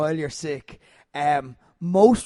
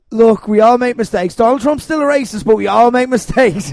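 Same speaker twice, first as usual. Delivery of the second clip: mock earnest plea; 4 semitones higher, 8 dB louder than usual. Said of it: "people on the left are kinda like".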